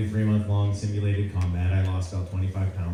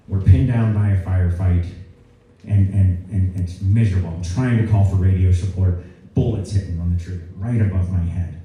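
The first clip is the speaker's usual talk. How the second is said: louder mock general's voice; imitating the general; 6 dB louder than usual. Four-star general recalling Vietnam to a cadet, louder imitated general voice. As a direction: channel the old general's voice, a notch louder. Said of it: "I'll stop talking like him".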